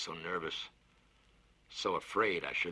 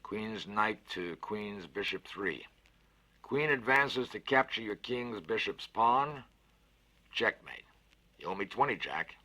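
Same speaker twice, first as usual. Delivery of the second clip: a big cheerful voice, lifted and louder; hearty Fats, louder and higher; 5 semitones higher, 6 dB louder, slower than usual. Acted. Fats cheers up the scared boy with a bet, hearty and loud. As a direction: sell the bet with gusto. Konski wins the game.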